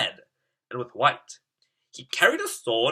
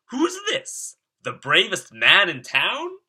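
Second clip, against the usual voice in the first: surprised king; 7 semitones higher, 3 dB louder than usual. Acted. King's amused surprise at Kevin.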